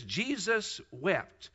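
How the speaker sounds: drawn-out, hushed two words; quoting the shortest verse, slowly and gravely; slow solemn reading. Shown as a demonstration. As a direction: let each word hang.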